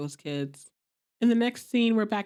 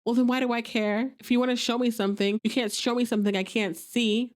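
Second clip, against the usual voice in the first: rough; 4 semitones higher than usual. Retold or imitated. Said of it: "rough Aleda says".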